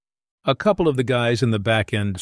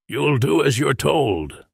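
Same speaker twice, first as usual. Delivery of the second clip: slow, firm command from behind a mask; stern order; 4 semitones higher, slower than usual. A narrator's reading. Spacesuit man ordering the narrator, slow and stern. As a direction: lay down the law slowly.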